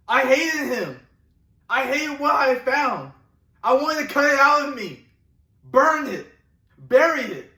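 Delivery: intense, mounting disgust at oneself; a dramatic confession of loathing; bitter self-loathing. Acted. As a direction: spit out the hatred, pushing harder on each phrase. Monologue, confessing self-hatred.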